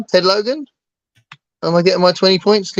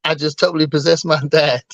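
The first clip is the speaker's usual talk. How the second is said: lightly put-on American dude voice; a hint of dopey American film character; Keanu. Quoting a favourite film moment, light American impersonation. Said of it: "as an impersonation of Keanu".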